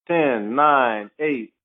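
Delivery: slow, spaced-out count; suspenseful countdown. Retold or imitated. Player retelling the final seconds, slow countdown. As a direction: let each number hang. Retold game clock countdown.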